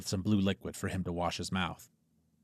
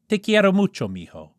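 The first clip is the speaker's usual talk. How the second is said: affectionate; 10 semitones higher, 8 dB louder than usual. Acted. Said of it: "his mom said affectionately".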